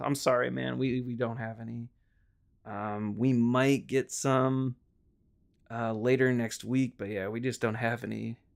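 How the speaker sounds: put-on downbeat tone. Retelling telling a man there are no Wiis in stock, retelling sounding down. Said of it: "what do you sound so down for?".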